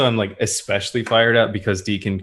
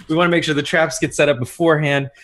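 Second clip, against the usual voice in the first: higher, hurried briefing; speaking super fast; 6 semitones higher, 3 dB louder, much faster than usual. Acted. Fired-up leader setting up traps, super fast. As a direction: race on through the plan. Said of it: "just speaking super fast".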